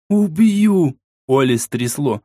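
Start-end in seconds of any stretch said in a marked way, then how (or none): 0.1-1.0 high-pitched furious yell; enraged threat. A narrator's reading. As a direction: explode with murderous rage. Furious threat, shaking with rage.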